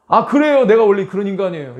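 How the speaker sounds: loud, fast sulky snap back; defiant retort. Retold or imitated. Jonah talking back to God in sulky defiance. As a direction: talk back like a stung child.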